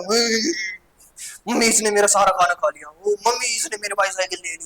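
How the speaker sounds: a hint of a whining kid; angry child complaining. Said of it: "ऐसे ऐसे गुस्सा हो जाता है बच्चों को".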